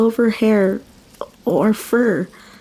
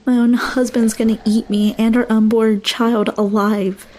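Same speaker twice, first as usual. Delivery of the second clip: usual speaking voice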